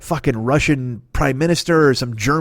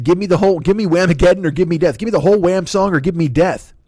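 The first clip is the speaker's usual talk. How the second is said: mock orator; 5 semitones higher, 4 dB louder than usual. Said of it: "He said".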